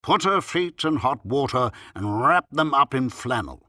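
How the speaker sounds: self-important doctor's instruction; very wise tone. A narrator's reading. Doctor ordering a footbath, very wise tone. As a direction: pronounce each remedy as great wisdom. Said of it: "in a very wise tone of voice".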